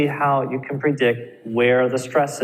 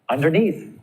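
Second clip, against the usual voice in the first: "underneath" with NEATH lifted and stretched; stress on last syllable; 4 semitones higher than usual. Shown as a demonstration. Teacher giving compound adverb examples, stress on NEATH in "underneath". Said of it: "You're gonna stress the second syllable".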